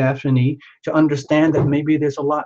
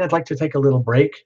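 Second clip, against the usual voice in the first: out of breath; faster than usual. Real, not acted. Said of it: "I'm a little out of breath".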